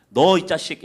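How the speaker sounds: a gruff scold, loud; mock scolding. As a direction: scold him like a fed-up father. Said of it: "약간 분위기가 일 절 한국 성경으로".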